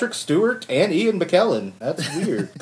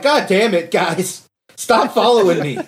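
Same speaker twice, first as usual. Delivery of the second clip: mildly exasperated villain; raised, fed-up complaint with a laugh behind it; Magneto; 3 semitones higher than usual. Acted. Magneto tells mutants to stop following, mock exasperation. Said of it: "Magneto's like".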